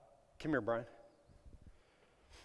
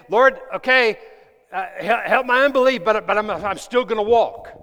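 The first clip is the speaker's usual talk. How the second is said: voicing a struggling believer; 5 semitones higher, 9 dB louder than usual. Voicing a doubter who walks anyway.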